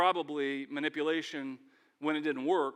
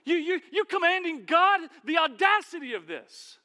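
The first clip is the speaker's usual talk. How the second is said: high, loud offended comeback; indignant retort; 11 semitones higher, 7 dB louder than usual. Pretend. Preacher imagining himself answering Martha, loud offended retort. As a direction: put her in her place, outraged.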